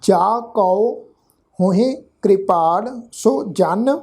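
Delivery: "ਕਉ" as "kao", "ਸੋ" short, each word set apart; model verse pronunciation. Shown as a demonstration. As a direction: glide "ਕਉ" from a to o and keep "ਸੋ" short. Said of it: "ਤੋ ਪਾਠ ਉਚਾਰਨ ਹੋਏਗਾ".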